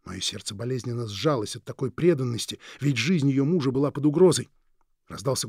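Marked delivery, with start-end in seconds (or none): none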